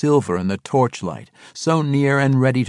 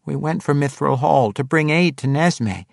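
higher halfling character voice; explaining halfling; 6 semitones higher than usual. A narrator's reading. Halfling explains his journey to the swordswoman, earnestly. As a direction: pitch it up to explain yourself.

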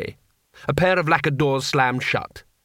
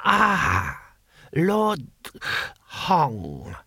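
ancient emperor; 2 semitones higher, much slower than usual. Acted. Emperor greeting his Grand Vizier, halting old voice. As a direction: leave long gaps between the words.

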